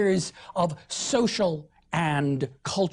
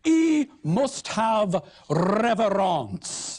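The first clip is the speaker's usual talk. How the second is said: very slow, lofty French-tinged southern courtier; royal Southern accent; 2 semitones higher, much slower than usual. Acted. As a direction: pronounce it like an uppity southern aristocrat. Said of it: "as Southern French and royal as you can get".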